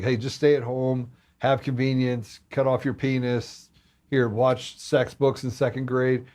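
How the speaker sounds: slow, offhand mock sales pitch; flippant. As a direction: toss off absurd suggestions casually, spacing them out. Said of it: "I said that very flippantly".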